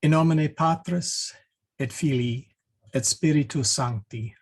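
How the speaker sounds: measured prayer, phrase by phrase with pauses; Latin prayer recitation. Acted. Teacher leading the class in an opening prayer, measured recitation. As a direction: recite in clear, evenly paced Church Latin.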